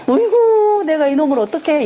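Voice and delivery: mock exasperated parent ranting. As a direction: burst out in fed-up exasperation. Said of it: "이러는 거야".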